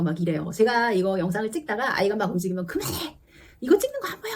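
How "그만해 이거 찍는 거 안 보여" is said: higher, sharp retold yell at the kid; angry outburst. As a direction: snap at the child who ruins the take. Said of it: "이렇게 화를 내는데". (촬영 중 움직이는 아이에게 화내며 소리침)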